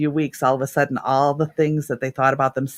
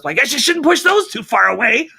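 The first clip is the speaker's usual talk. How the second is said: wry client joke; 8 semitones higher, 4 dB louder than usual. Retold or imitated. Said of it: "He goes".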